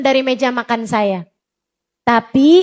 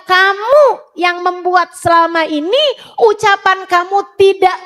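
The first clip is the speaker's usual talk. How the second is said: higher, insistent, scolding the mothers; raised preaching voice; 4 semitones higher than usual. Real, not acted. Preacher scolding the mothers in the audience, raised and insistent. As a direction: press the point hard, like a rebuke.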